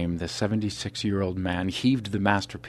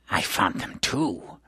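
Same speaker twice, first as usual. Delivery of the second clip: taunting; slower than usual. Acted. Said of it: "the huge man taunted".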